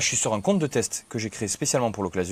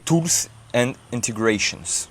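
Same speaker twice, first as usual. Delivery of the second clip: slow English accent from a French speaker; much slower than usual. Real, not acted. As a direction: say it slowly in your best English accent. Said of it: "j'espère que vous kiffez mon accent anglais". (accent anglais appliqué)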